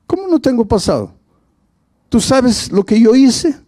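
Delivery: a woman shocked that her past is dismissed; incredulous woman. Retold or imitated. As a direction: throw his words back at him in disbelief.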